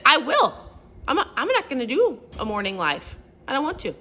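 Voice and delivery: mock-defiant refusal to her husband; defiant retort. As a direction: snap back like a stubborn kid. Retelling her defiant reply.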